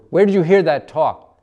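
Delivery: high, loud alarmed demand; alarmed shout. A narrator's reading. Mercy grabbing Dina after the rhyme, alarmed shout. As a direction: snap it out in a panic.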